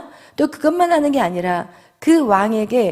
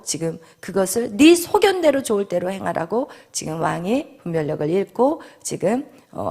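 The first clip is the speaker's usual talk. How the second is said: ordinary delivery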